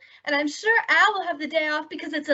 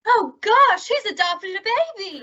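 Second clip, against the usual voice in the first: high, louder burst of alarm; excited gasp; 5 semitones higher, 4 dB louder than usual. Acted. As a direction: blurt it out in sudden excitement. Irma misreads serape as baby.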